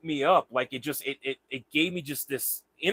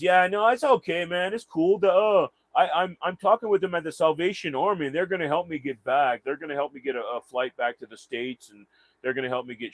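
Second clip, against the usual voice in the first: lightly pitched-up, eager retelling of the guy; shoeless stranger's voice; 4 semitones higher than usual. Retold or imitated. Stranger at the airport reassures him, voiced higher and eager. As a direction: play the stranger, upbeat and higher. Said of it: "He goes".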